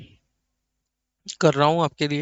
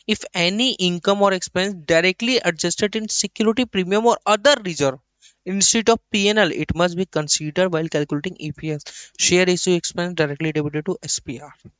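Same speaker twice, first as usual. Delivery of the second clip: slow, measured reading of the text; slow dictation reading; much slower than usual. Acted. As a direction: read it out slowly so the class can copy it. (धीमी आवाज़ में लिखवाना)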